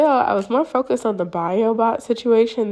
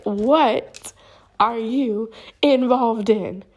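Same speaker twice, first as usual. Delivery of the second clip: slow, higher, drawn-out acted demand; insistent; 4 semitones higher, much slower than usual. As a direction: press for an answer word by word. Pressing partner for answers.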